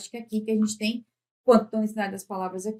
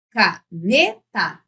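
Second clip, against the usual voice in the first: "Caneta" lento, com "NE" em destaque; sílaba por sílaba; 3 semitones lower, 4 dB louder, much slower than usual. Shown as a demonstration. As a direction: separe "Ca-ne-ta", batendo no "ne". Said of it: "Essa é a tônica". ("Caneta" dito pausadamente)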